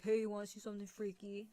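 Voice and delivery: playful man impression; a hint of a guy's casual invitation; Mister Dreadful. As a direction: lightly put on a generic man voice. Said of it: "that's my man impression".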